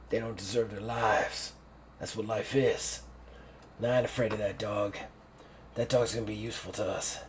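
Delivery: lightly voiced hard-bitten commander; a touch of cold menace, laying down the law; stern old general. General lectures his assistant.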